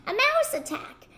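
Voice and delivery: high panicked cry; hollering in panic. Acted. Storyteller to children, collector woman panics at the mouse, high cry. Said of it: "she ran hollering".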